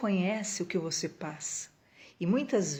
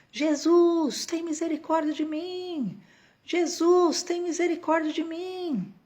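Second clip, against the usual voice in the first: acted-out very high shout, "mim" drawn out; 9 semitones higher, 4 dB louder than usual. Retelling how a blind man began crying out to jesus, retelling a shout. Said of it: "O cego começa a gritar".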